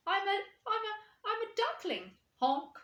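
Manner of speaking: high, stammering little voice; nervous duckling. Acted. Duckling answers the cat.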